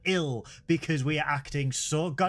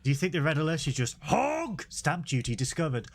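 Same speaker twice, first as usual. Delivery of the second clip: ordinary talk, nothing marked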